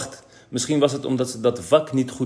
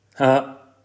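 laughing; 4 semitones higher, 6 dB louder than usual. Acted. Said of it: "lachte Kees".

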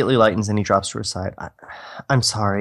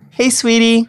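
much higher and louder, sing-song sweetie; sugary girl voice; 12 semitones higher, 6 dB louder than usual. Acted. Michelle greeting Nikon from the car, high sugary voice. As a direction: put on a cutesy girlfriend voice.

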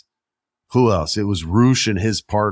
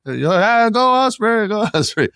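high, loud cheering fan voice; mock cheering crowd; 14 semitones higher, 4 dB louder than usual. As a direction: cheer his name like a fan in the stands. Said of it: "the crowd legit was like".

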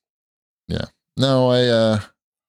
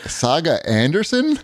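incredulous; 8 semitones higher, slower than usual. Real, not acted. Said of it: "That is not her name".

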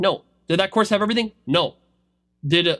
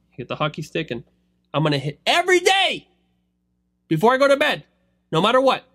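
put-on determined kid's vow; 4 semitones higher than usual. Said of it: "He goes".

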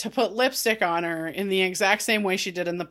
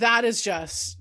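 choking up; 4 semitones lower, 5 dB quieter than usual. Real, not acted. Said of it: "let you hear that I'm choking up".

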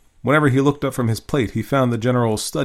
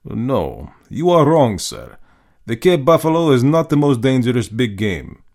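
slowly; 3 semitones higher, 5 dB louder than usual. Acted. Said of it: "Then he said slowly".

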